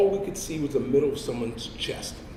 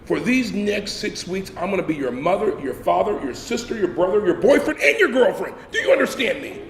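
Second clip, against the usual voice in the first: higher, deliberate, in his face; intimidating sergeant; 3 semitones higher than usual. Retold or imitated. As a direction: menace him up close. Sergeant leans into recruit's face.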